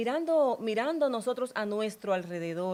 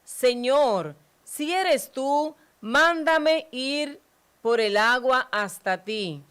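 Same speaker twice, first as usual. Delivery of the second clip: higher, slow, louder plea; Peter pleading; 3 semitones higher, 6 dB louder, slower than usual. Acted. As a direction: ask the Lord from the boat. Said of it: "Pedro le contestó".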